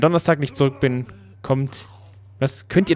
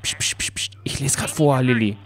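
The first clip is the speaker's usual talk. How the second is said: whispered hush. Real, not acted. Reader hushing chatty companion Lilly, whispering. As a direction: shush her gently while reading. Hushing character while reading diary.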